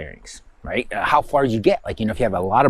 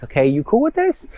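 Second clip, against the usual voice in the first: voicing the unconscious; 10 semitones higher than usual.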